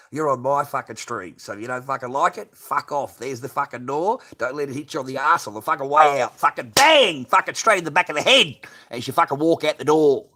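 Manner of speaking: rising furious rant at critics, loud and building; angry rant. Real, not acted. Streamer snapping at viewers who judge his looks, in a furious loud rant.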